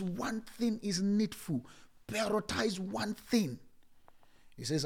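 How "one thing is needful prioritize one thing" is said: slow and weighty. Retold or imitated. Jesus quoted, slow and weighty.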